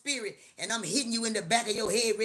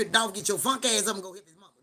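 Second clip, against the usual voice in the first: urgent holler; 6 dB louder than usual. Retold or imitated. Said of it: "my heart was in my chair like".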